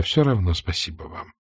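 soft drowsy mumble, drifting off; sleepy murmur. A narrator's reading. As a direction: murmur it while falling asleep. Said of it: "пробормотала она, засыпая".

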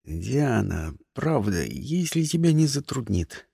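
butter her up sweetly; honeyed voice. Acted. Christian sweetly coaxing Diana into fetching tea. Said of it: "елейным голосом сказал Кристиан".

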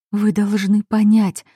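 plain reading voice

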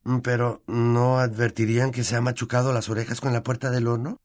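a hint of a concerned boy; puzzled young wizard. Boy questions the elf about punishments, lightly puzzled. Narrator voices young Harry.

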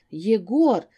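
loud shocked cry of his name. Acted. Fiancée shocked.

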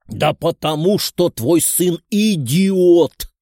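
loud, slow shout at his wife. A narrator's reading. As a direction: yell it out in anger. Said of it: "прокричал мужчина".

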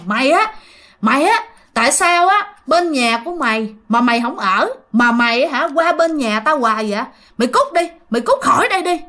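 jab the words out like driving someone away; retold cursing. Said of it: "Vừa chỉ mà vừa chửi".

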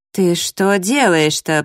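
slow indignant question; a touch of alarm at her nerve. Acted. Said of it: "повысила голос эта стерва".

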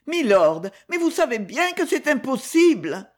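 high, distressed protest; exclamation oppressée. A narrator's reading. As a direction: cry out as if the chest were tight. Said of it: "s'écria-t-elle d'une voix oppressée". (protestation oppressée, voix aiguë)

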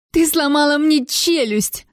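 slow, high-pitched accusation; crying out. A narrator's reading. Tiana comes round and accuses her attacker, crying out. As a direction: wail it out, stretching the words. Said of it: "закричала она".

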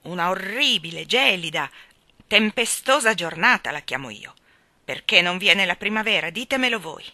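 loud, blustering sea captain; old sailor grumbling loudly at the cold; grumbling old admiral. A narrator's reading. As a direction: bluster about the weather. The admiral complains about weather.

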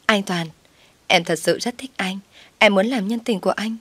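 a hint of seductive coaxing; flirtatious. Loan seducing the husband, lightly coy and flirtatious. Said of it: "ve vãn chồng tôi".

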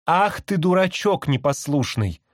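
high, slow parrot echo of the woman; a parrot copying its mistress; parrot mimicking. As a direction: coo it back like a parrot.

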